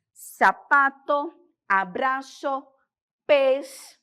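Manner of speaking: "sapato", "abraço", "pés" with a soft S sound; soft S in "sapato", "abraço" and "pés", no buzz; soft Spanish Z. Shown as a demonstration. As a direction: give "sapato", "abraço", "pés" an unvoiced hiss of S. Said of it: "nós temos um som suave".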